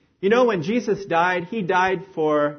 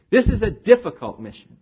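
recruiter's announcement; 4 semitones higher, 5 dB louder than usual. Acted. Acted recruiter announcing mission.

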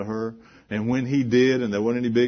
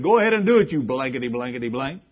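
mock jeering prisoner; 6 semitones higher, 8 dB louder, faster than usual. Prisoners jeer at the jailer.

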